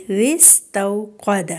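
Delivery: وستوقد slow with a gentle, unstretched و; soft waw leen. Shown as a demonstration. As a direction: ease through the و of وستوقد without a jolt. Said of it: "لین کا مطلب ہی نرمی سے پڑھنا ہے". (وستوقد میں واؤ لین نرمی سے)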